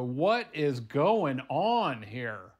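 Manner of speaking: very loud, drawn-out disbelief; loud bewilderment. Acted. Fries wake and look around, loudly bewildered. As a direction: stretch out each word in a big baffled cry.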